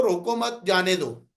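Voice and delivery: "روکو مت" as one unit, then "جانے دو"; group it as "روکو مت", pause, "جانے دو"; pause after مت. Shown as a demonstration. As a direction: join مت to روکو, break, then let جانے دو fall. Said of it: "ایک لہجہ میرا یہ ہے".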